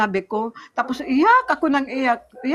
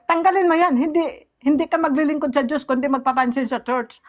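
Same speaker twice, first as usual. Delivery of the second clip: husband's sharp order; 3 semitones higher than usual. Retold or imitated. Husband ordering her to remove it.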